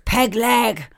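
pirate name. Pretend. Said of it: "pirate day intros".

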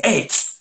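a quick sharp tss hiss; heat hiss. Retold or imitated. Coach showing his players the heat hiss. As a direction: hiss like hot steam to the kids. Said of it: "That's the sound of heat".

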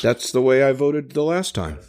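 nasal, nose held shut; pinching nose. Pretend. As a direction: talk with your nose pinched. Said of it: "with a clothespin on your nose".

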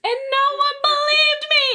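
high, loud comic protest; exasperated wail at being doubted; indignant outcry. Retold or imitated. Teller protesting that her family doubted her, indignant.

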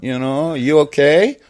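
put-on high, concerned American accent; checking in, American accent lifted in pitch; David Fincher. Director asking after actor, high American accent. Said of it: "first American accent I could, comes to mind".

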